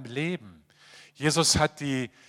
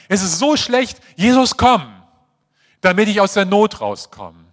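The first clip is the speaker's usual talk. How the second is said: desperate plea; 5 semitones higher, 9 dB louder than usual. Retold or imitated. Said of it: "wie so ein Notausgang".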